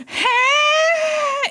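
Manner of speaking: loud high squawk; cat yell. Retold or imitated. Imitating Bagel squawking for food. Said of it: "Bagel go".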